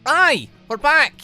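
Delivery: ordinary delivery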